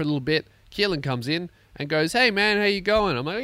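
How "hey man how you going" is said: higher, louder mock coworker voice; retelling a coworker's cheery hello; coworker greeting. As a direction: bounce it up like a chirpy mate. Coworker voiced in retold story.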